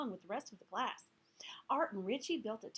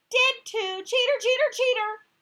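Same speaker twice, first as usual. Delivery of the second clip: shrieked chant, much louder; taunting; 12 semitones higher, 16 dB louder than usual. Acted. Gail with fingers in ears, taunting Heidi at full volume. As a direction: yell it over her, sing-song.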